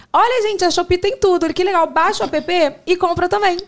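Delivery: high-pitched mock promo pitch; publi fácil imitada. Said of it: "chegar pras pessoas e falar assim". (imitação de publi, aguda e empolgada)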